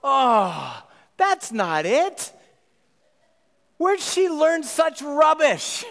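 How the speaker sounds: squeaky goblin sneering at the wrong words; goblin voices. Acted. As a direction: goblins mocking Sarah's rubbish spell. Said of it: "And all the goblins go".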